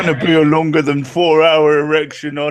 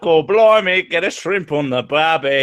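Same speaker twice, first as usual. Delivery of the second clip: mock Cockney-Australian accent. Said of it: "sounded like the fucking Little Mermaid".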